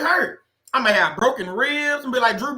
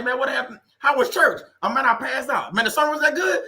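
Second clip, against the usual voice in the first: 1 acted friend; 5 semitones higher than usual. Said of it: "somebody walking to you like".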